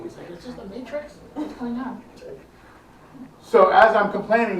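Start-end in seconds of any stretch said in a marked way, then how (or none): 0.3-2.0 high-pitched, panicky retelling of the crowd; mock freaking out. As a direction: imitate a spooked tourist, lightly. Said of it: "like, freaking out, questioning reality".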